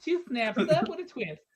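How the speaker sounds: catchphrase with a slight lift; lightly voiced TV critic. Host quoting Men on television, lightly imitated critic. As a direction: give the sketch verdict with mild flourish. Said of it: "men on television".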